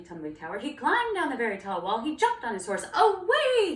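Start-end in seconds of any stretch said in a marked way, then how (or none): 2.9-3.8 loud, high rallying call; heroic cry. Acted. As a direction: cry out like a knight charging off. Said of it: "he cried".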